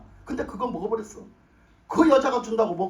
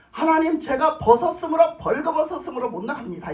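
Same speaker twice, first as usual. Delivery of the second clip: Adam's excuse; 4 semitones higher than usual. Acted. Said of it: "뭐라 하냐면".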